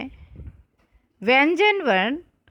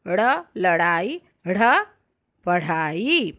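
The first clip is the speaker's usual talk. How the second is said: reciting consonants; slower than usual. Shown as a demonstration. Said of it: "पहले मैं पढ़ती हूँ".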